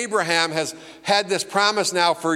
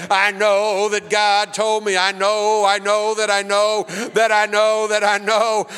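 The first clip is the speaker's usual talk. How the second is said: hammed-up revival preacher, louder and higher; mock-shout like a fired-up old-time preacher; imitating an excited preacher claiming certainty; 5 semitones higher, 4 dB louder than usual. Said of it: "preachers get up and get all excited".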